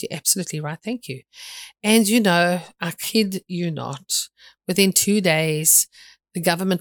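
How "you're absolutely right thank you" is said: soft, calmly voiced reply; calm acceptance. Retelling the person accepting the hard talk, calm acceptance. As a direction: answer quietly and without protest. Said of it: "they looked at me very calmly and said".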